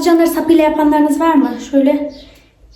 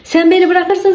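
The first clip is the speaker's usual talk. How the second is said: mock whiny plea; 5 semitones higher than usual.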